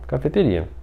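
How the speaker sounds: ordinary talk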